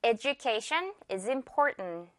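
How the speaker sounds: "Education" said eh-joo-KAY-shun, slowly; j sound in education. Shown as a demonstration. Teacher modelling the example sentence, j sound. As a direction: stretch "Education" out with a j for the d. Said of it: "주 발음 주의하면서 갈게요".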